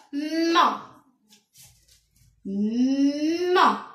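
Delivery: "ma" drawn out on a hummed m; slow "ma... Ma", stretched for writing along; lengthened M sound. Shown as a demonstration. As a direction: hold the m long each time before the vowel of "ma". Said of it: "seulement le son mais".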